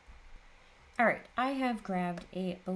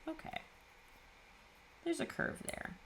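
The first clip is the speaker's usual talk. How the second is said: higher, breezy and unbothered; careless high voice; 10 semitones higher, 7 dB quieter than usual. Retold or imitated. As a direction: toss it off carelessly. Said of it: "you more just go".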